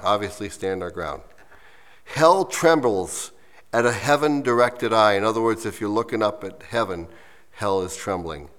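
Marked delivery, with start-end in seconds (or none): 2.0-5.1 slow, deliberate verse reading; unhurried, measured recital. Real, not acted. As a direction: read the verse slowly, leaning on the opening words. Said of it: "read it to you slowly".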